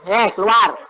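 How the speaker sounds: light, easy, unforced keluar; calm eh keluar without shouting; gentle command. Retold or imitated. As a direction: tell it to leave casually, no force. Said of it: "Tuhan cuma bilang".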